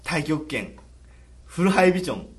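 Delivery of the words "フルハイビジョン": punchy ad slogan; CM catchphrase voice. Retold or imitated. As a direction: sell it like a TV ad. CM parody catchphrase.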